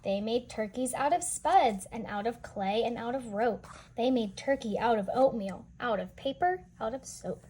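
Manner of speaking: lively storybook reading voice; read-aloud narration. A narrator's reading. Teacher reading a picture book to children, lively storytelling. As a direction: read the rhyme to the kids with bounce.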